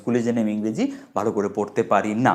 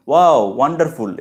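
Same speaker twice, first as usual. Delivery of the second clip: louder exclamation of wonder; modelled exclamation; 3 semitones higher, 6 dB louder than usual. Shown as a demonstration. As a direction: demonstrate an amazed WOW as overheard. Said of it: "এরকম বলছে, শুনলাম".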